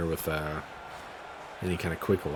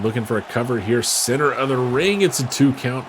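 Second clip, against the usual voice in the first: excited; 4 semitones higher, 6 dB louder than usual. Real, not acted. Cover attempt called fast.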